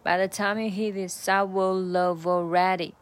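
"I will love already" with have reduced to a schwa "of" and blended into will; linked reduced have. Shown as a demonstration. Tutor shows learners the linked "will love". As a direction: run "will love" together in one beat. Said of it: "will love就，就是连读在一起".

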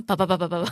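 vocal imitation of applause; mouth clapping sound. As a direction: pop lips like clapping. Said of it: "此处应该有掌声". (用嘴模仿掌声)

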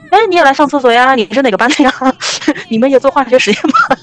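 put-on eager chatter to a girl she just met; chirpy friendly greeting. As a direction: play her own overly friendly small talk. Greeting a stranger in the toilet.

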